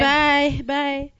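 mock cheery send-off; dismissive goodbye. Acting out seeing her friend off, breezily dismissive.

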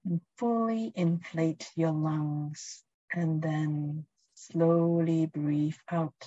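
calm, unhurried guiding voice; guided meditation. Acted. Leads a presence meditation.

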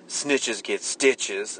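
drawn-out, deadpan line; slow mock octopus. Quoting the octopus, slow deadpan tough talk. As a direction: drag each word out like a tough guy.

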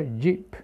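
JEEP with the last p sounded; final P pronounced. Shown as a demonstration. Teacher reminding learners of consonants, JEEP ending in p. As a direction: close JEEP on an audible p. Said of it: "hay que pronunciar la P al final".

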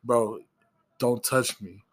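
understated, unhurried warning; calm retold warning. Coworker recounting his warning to a man, calm. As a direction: keep the threat level and matter-of-fact. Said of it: "I calmly told him".

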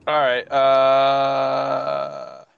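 breaking up on the call; choppy glitching mic audio; buzzy glitchy call audio. Real, not acted. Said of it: "You're breaking up, by the way, your mic".

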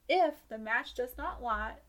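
slow Southern drawl on the rule; country twang reading aloud; country accent. Shown as a demonstration. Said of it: "that country voice really came out".

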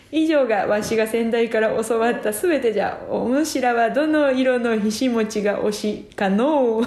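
lightly voiced creaky wise old man; hermit voice. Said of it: "わしはひしもち仙人じゃ".

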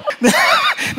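a sudden burst of high laughter. Real, not acted. Preacher laughs loudly.

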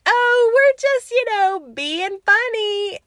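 high, drawn-out mock innocence; hammed-up reply. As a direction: stretch it out in a loud, high singsong. Retelling own reply to old ladies.

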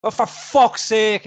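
loud, high, drawn-out exasperation; angry moaning. Retold or imitated. Fed-up coworker dismissing the podcast, loud exasperation. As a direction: groan the words in slow, loud disgust. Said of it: "Angry and fucking moaning".

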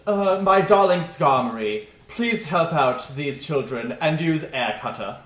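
theatrical gentleman, loud start then easing; doting trainer. Acted. Stranger asking his bird to help children, theatrical fondness. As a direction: command your beloved pet grandly.

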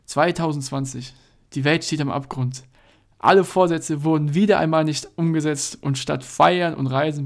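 mock trailer narrator; dramatic movie trailer read; disguised deep voice. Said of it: "mit verstellter Stimme".

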